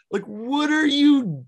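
high squeal through laughter; squeaky laughing voice; laughing squeak. Real, not acted. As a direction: laugh so hard the voice cracks up high. Cohost laughing at the joke.

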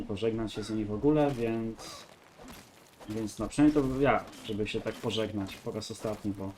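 ordinary talk, nothing marked

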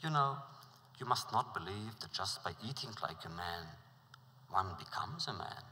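calm the frightened prince gently; reassuring. Acted. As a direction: wise friend reassuring the prince. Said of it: "his friend reassured him".

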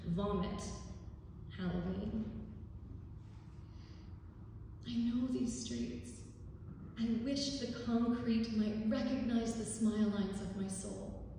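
measured spoken-word reading with long pauses; poem recitation. Acted. Local author reads their poem about community to an audience, poetry reading. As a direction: recite it line by line, letting each image land.

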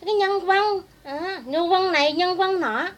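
"nhân quân" pitched high in mock Northern accent. Speaker picking at rival's borrowed speech, mocking Northern accent on "nhân quân". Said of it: "nhân dân kêu".

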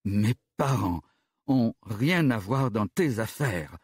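slow, calm reply; calmly. Acted. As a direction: answer calmly and slowly. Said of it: "finit-il par dire calmement". (calmement et lentement)

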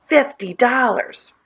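self-pitying slow moan; moaning to himself. A narrator's reading. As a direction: draw it out in a woeful moan. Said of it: "Alan moaning to himself".

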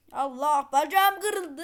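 loud cry of pretend pain; mock pain. Game character falls and cries out in mock pain. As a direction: yelp as if the leg broke. Character hurt after fall.

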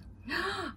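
high acted gasp; short storybook intake of breath; admiring gasp. Uncle admires his clever niece, acted gasp.

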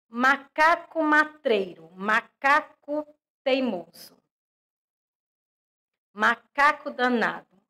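sing-song storybook poem reading; reading a poem aloud. Acted. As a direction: read the verse with a lilt, for little kids. Teacher reads poem aloud.

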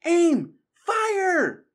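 high, loud firing orders; battle-captain yell; shouted commands. A narrator's reading. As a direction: bellow each order separately. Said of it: "shouted Matthias".

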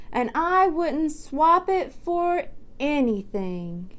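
slow and satisfied, a touch proud; contented chicken. Acted. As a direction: savour it like a happy ending. Chicken's happy closing line.

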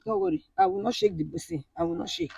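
soft, shaking self-promise; steady yourself through the shaking; trembling, fighting tears. Real, not acted. Wife whispering to herself while her body shakes. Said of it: "your body is shaking".

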